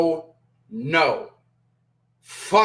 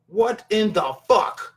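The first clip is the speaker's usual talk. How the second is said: drawn-out disbelief; 3 semitones higher, slower than usual. Real, not acted. Disbelief at the couple.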